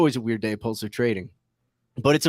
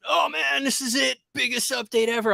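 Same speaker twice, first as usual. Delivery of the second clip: mock hype; 12 semitones higher than usual. Mimicking friend's hyped announcement.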